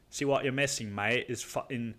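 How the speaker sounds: Scottish impression slipping into British; bad British accent. Scottish buddy corrects the accent, comes out British. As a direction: imitate a British mate, unconvincingly. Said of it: "like, right now I'm doing a British accent".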